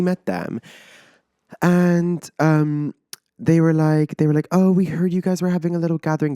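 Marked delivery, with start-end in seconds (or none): 4.5-6.4 friendly neighbor. Retold or imitated. Neighbors quoted at first meeting.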